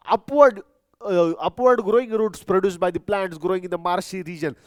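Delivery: slow, spaced-out dictation pace; dictating a definition to the class. Shown as a demonstration. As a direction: read it slowly so they can write it down. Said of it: "reads definition slowly for dictation".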